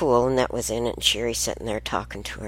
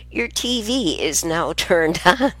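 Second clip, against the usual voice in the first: slower, gentler repeat of the TV line; slow retelling; 5 semitones higher than usual. Retold or imitated. Grandmother repeating the TV line slowly for her listeners. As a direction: say it slowly, spelling out what the TV said. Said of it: "What I said was".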